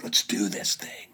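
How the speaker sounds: low conspiratorial whisper; eager whisper. Retold or imitated. Older brothers rallying for the hike, whispered. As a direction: whisper it like a secret pact.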